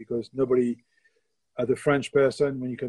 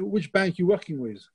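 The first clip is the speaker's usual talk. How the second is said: lightly mocked posh voice, higher; a hint of an upper-class guest, pitched up; posh party guest; 6 semitones higher than usual. Posh guest mishears baker as banker, lightly mimicked, higher. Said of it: "so very posh".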